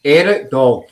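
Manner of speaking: a light Yorkshire lilt on Eric Dog; Yorkshire accent demo. Shown as a demonstration. Host shows the Yorkshire way of saying it, lightly. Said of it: "Can you do it?".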